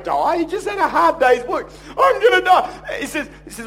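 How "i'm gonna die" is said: high, loud, drawn-out mock wail; hammed-up dying of hunger; melodramatic complaint. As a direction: wail it slowly, overdramatically. Mocking Esau's exaggerated complaint.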